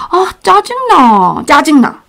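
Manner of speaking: annoyed, whining to a friend; irritated groan. Shown as a demonstration. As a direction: sound fed up with it. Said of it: "if you're talking to your friends".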